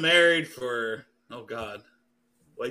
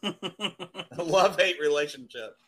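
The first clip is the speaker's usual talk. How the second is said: laughing while talking; slower than usual. Real, not acted. Joking, laugh heard.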